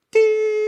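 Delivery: very high, loud squeal of glee; shrieking happy "Dee"; giddy squeal. Retold or imitated. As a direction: squeak out pure delight. His own giddy reaction.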